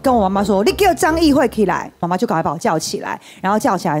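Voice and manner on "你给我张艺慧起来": angry father. Retold or imitated. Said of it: "我爸就突然非常生气的说".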